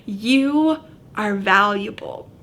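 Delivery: slow, earnest and tender; sincere reassurance. Real, not acted. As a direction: speak it straight to their heart. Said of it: "I want you to hear this".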